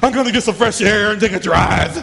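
mock angry husband leaving; hammed-up door-slammer; storming out. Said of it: "we slam the door".

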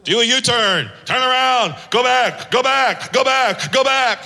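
insistent GPS repeating go back; a nagging navigation voice pushing harder; mock GPS yelling. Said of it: "your G P S is yelling at you".

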